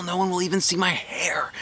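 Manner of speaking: hushed relieved whisper. A narrator's reading. Girl whispering her relief to herself, relieved whisper. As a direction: breathe it out, relieved and secret. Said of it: "I said, real relieved".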